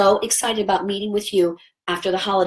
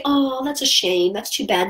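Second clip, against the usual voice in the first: mock pity; 3 semitones higher, slower than usual. Shown as a demonstration. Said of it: "We don't say".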